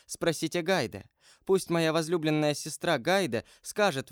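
sincere, slightly lifted heroine voice; lightly voiced Valentina.

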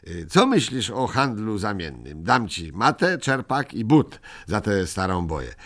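lightly voiced small creature, bargaining; a hint of a sly little trader; mildly voiced Ryjek haggling; eager Ryjek.

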